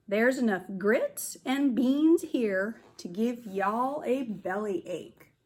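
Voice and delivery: lightly voiced drawling cowboy; a hint of a friendly ranch hand; cowboy camp leader, hearty. Camp leader welcoming the kids, lightly drawled.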